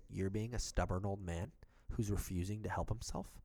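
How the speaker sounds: calmly retold telling-off; even, unhurried firmness. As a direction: lay down the law without raising your voice. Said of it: "I said it calmly".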